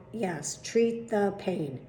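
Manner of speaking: "treat the pain" spelled out slowly, each word set down; slow firm insistence. Retold or imitated. Doctor insisting to his patient, slow and firm. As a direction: lay it down slowly like an order. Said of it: "He's like".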